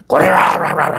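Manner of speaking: a hint of a Japanese drama voice; mock Japanese throat voice. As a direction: rattle it in the throat, no vocal cords. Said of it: "일본 사람은 목소리를, 이 성대를 사용을 안 해요".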